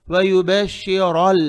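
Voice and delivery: वयुबश्शिरल slow, with a thick rounded r before the final l; heavy ra. Shown as a demonstration. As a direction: draw out वयुबश्शिरल, r full and heavy. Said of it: "रा को मोटा पढ़ेंगे".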